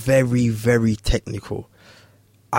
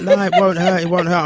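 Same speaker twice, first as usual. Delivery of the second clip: coaxing; 6 semitones higher than usual. Retold or imitated. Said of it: "I'm trying everything".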